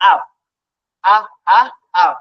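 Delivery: short "আ" repeated, then blended "আপ"; phonics U sound. Shown as a demonstration. Teacher showing how U is read, short "আ" leading into "আপ". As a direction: sound "আ, আ" separately before "আপ". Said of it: "পড়েন কি?".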